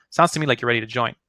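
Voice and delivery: quick "Sounds to me like you're ready to join", no lift on "join"; brisk statement, "join" falling at the end; statement tonality. Shown as a demonstration. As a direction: say "ready to join" as a settled fact. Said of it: "It's a statement".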